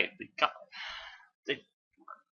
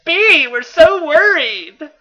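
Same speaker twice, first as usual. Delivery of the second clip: squeaky high-pitched female voice; shrill falsetto, slow and loud; high girly voice; 9 dB louder, slower than usual. Acted. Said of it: "I do a much better R C impersonation".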